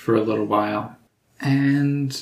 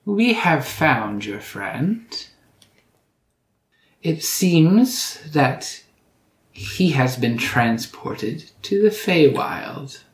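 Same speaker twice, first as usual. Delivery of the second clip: put-on slow, deliberate old hag; drawn-out crone pronouncement; 4 semitones higher, slower than usual. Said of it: "And the hag says".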